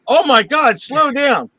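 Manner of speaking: high, loud mock panic at the driver; retold panicked yell. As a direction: yell it like the radar just went off. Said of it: "I go".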